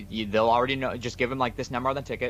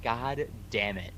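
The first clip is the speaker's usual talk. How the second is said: slow, drawn-out exasperated curse; understated anger, stretched out word by word; quietly fed up, dragging the curse out; retold anger; 4 dB quieter, much slower than usual. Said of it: "I was so angry".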